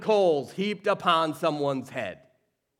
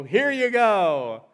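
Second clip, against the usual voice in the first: casual handover; 5 semitones higher, 7 dB louder, much slower than usual. Pretend. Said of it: "we want Saul to just go".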